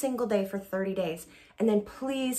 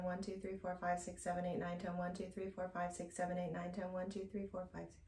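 counting to ten, fading softer to the end of the breath; counting on one exhale; 6 dB quieter than usual. Shown as a demonstration. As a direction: let the count die away as the air runs out. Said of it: "now we're going to add voice".

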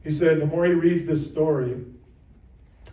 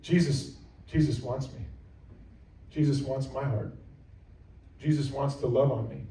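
sincere prayer. Pretend. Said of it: "And so you say".

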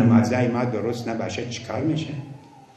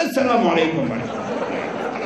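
mock rushed salaam; 4 semitones higher than usual. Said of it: "نمازای برقی".

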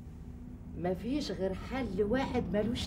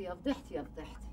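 much softer, lower, trailing to a murmur "يا فضيحتي"; fading lament; 6 semitones lower, 10 dB quieter, faster than usual. Acted. Woman moaning her shame under her breath. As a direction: let "يا فضيحتي" sink almost to nothing. Repeated lament dying away.

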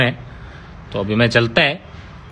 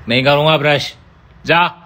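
defiant refusal; 3 semitones higher, 4 dB louder than usual. Acted. Stubborn refusal to brush teeth.

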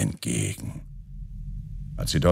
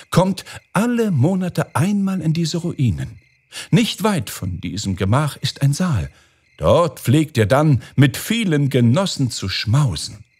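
higher-pitched owl character, building suspense; intent owl princess; 7 semitones higher than usual. Acted. Owl revealing the sorcerers' meetings to the Caliph, intent high voice.

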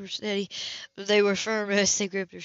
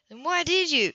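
shouted; 6 semitones higher than usual. Acted. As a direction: shout it up at him. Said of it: "Seth shouted".

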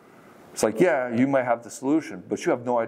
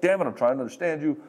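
mock frustration, pitched up at the start; mildly angry quote; 4 semitones higher than usual. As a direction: imitate an exasperated man arguing. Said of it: "he just gets angry".

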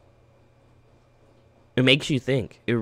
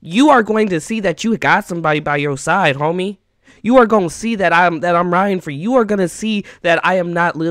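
insistent, raised voice settling into firm resolve; impassioned promise; 3 semitones higher than usual. Pretend. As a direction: promise a friend you won't give up. Vows support to imagined friend.

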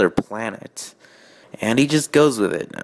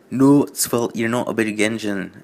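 put-on Scottish accent. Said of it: "giving Edward a Scottish accent".

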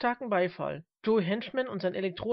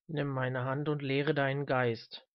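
put-on calm old man; 4 semitones lower, slower than usual. Old man instructs trembling Smith.

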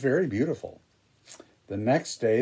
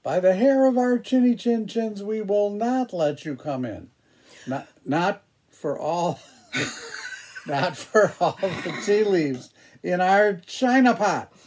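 high, small wolf voices; little wolves voice; 7 semitones higher than usual. Acted. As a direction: squeak it like frightened little wolves. Wolves answer the pig.

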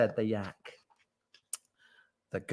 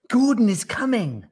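high, loud announcement; crying out; 11 semitones higher, 6 dB louder than usual. A narrator's reading. Giraffe passes news to the tiger, crying out. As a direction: cry the news out. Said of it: "cried the giraffe".

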